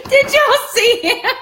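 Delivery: high, loud, startled laughing question; laughing in surprise. Real, not acted. To viewers, after spotting her son, laughing hard. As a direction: laugh it out, caught off guard. Child peeks in during filming.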